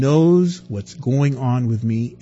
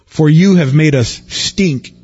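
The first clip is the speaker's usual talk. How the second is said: louder, bitter accusation; accusing crowd; 6 dB louder than usual. Acted. Israelites blaming Moses and Aaron, louder and bitter. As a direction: throw the blame at Moses.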